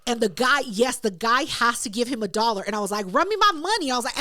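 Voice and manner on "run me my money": insistent, raised-pitch demand; retold demand for payment. Winner collecting a dollar from the loser, demanding. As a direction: act out pressing for what's owed.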